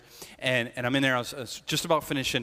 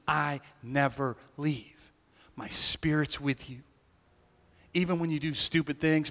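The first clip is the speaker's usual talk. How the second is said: lightly voiced gentle Father; tender voice of God. Voicing God speaking to him.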